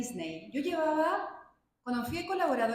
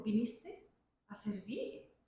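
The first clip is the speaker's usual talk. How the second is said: slow soft whisper of gentle words; whispered quote; 5 dB quieter, much slower than usual. Retold or imitated. Jesus answering her in prayer, slow whisper. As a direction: breathe it out slowly, hushed.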